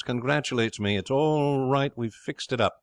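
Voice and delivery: high, jubilant announcement; elated shouting. Acted. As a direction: share the good news, beaming all over. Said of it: "he shouts".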